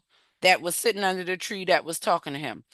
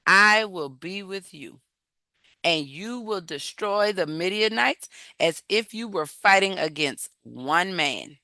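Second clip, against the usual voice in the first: the Lord reassuring; 4 semitones lower than usual. Retold or imitated. The Lord answers Gideon.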